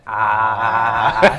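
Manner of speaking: "Ah" long, flat and level; first tone. Shown as a demonstration. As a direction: say "Ah" like at the doctor, held flat. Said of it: "So that's the one".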